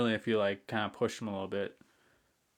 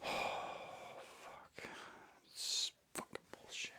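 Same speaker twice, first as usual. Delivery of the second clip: sighed out in a whisper; exasperated whisper; whispered curse; 14 dB quieter, much slower than usual. Real, not acted. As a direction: breathe the swear out. Sighing curses alone.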